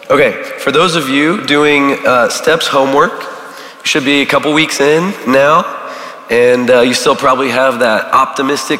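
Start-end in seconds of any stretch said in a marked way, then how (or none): none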